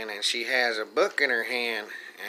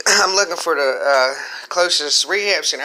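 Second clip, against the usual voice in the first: loud; 3 semitones higher, 8 dB louder than usual. Retold or imitated. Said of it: "She's like".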